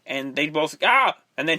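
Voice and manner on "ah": short, higher mock scream. Retelling two characters startled by each other, short mock scream. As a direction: yelp a brief imitation of a scream. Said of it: "and he screams louder".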